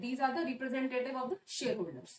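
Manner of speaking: slow, word by word, for notes; slow dictation. Shown as a demonstration. Teacher to class, slowly dictating a definition. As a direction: spell it out slowly so students can write.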